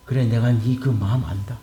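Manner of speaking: low, hushed reassurance; gentle, subdued divine voice; understanding God. Acted. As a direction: speak low, as God consoling an upset prophet. Preacher voices God comforting Jonah.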